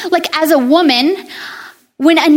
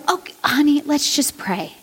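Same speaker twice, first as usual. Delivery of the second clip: softer, soothing motherly tone; calm her child down gently; the mother soothing her upset daughter, softly; gentle mom; 3 semitones lower, 6 dB quieter than usual. Retold or imitated. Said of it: "And she would go".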